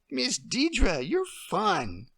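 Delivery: a little girl playing queen; child playing queen. Emily playing the queen for Deirdre.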